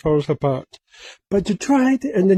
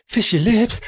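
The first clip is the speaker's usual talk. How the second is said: silly high voice; 5 semitones higher than usual. Pretend. Sing-song repeat of the joke.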